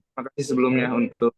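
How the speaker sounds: choppy call audio; breaking up audio. Real, not acted. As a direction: voice cutting in and out. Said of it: "ngomong suaranya putus-putus".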